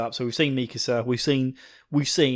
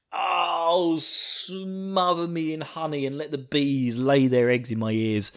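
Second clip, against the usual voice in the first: swooning; 3 semitones higher, slower than usual. Real, not acted. Swooning over the character.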